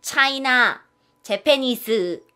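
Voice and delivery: "차이나, 재패니스" with the endings loud and drawn out; final-syllable stress. Retold or imitated. Teacher mimicking how Koreans sound to foreigners. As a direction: lean on the last syllables. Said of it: "외국 사람한테 이렇게 들린대요".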